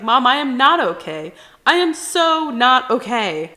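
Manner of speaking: a daughter insisting she is struggling; retold distress. Acted upset reply to mom.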